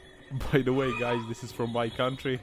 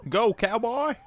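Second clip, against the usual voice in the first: loud, high-pitched rodeo holler; mock-excited yell; whooping cheer; 12 semitones higher, 6 dB louder, slower than usual. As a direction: egg the rider on. Cheers on a wild ride.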